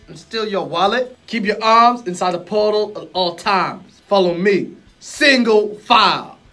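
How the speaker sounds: loud, easygoing genie guru; laid-back street-wise genie; cool guru voice. Acted. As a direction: play it smooth and relaxed, a genie with swagger. Acted guru lines.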